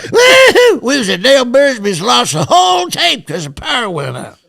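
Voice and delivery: whooping story yell; laughing excited shout. Real, not acted. Laughing rant about lost tape.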